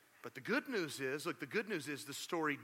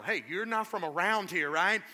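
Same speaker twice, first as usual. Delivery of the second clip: teasing New Yorker; 4 semitones higher, 9 dB louder than usual. Retold or imitated. New Yorkers noticing Southern accent.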